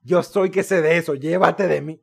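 a hint of the smug expert brushing off the client; proud professional. Barber brushing off the client's request, in a lightly mocking smug-expert voice. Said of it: "del profesional orgulloso".

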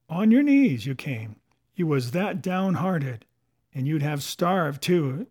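lively scolding pirate, key words punched; Silver's scolding. Acted. Silver answers the mutineers about the bargain, scolding. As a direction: berate them like a mutinous crew's captain.

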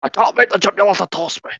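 jokey reluctant film-quote voice; quoted character plea. Pretend. Quoting a film character in jest.

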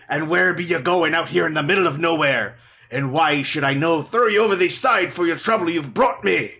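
gruff sea captain, brisk; pirate captain voice. Acted. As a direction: bark it like a ship's captain. Captain's lines in reading.

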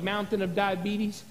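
commanding the mountain in a hushed voice; quiet command. Retold or imitated. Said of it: "say stuff like".

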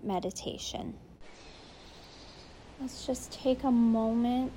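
steady meditation voice with long pauses between phrases; unhurried, soothing meditation lead; guided meditation. Real, not acted. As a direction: gently guide them to settle in.

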